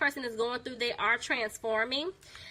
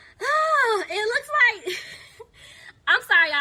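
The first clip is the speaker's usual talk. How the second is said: words breaking into laughter, pitched up and loud; 10 semitones higher, 6 dB louder than usual. Reading cards for viewers when a card flips back over, laughing while talking. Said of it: "I'm laughing because the way the card came out".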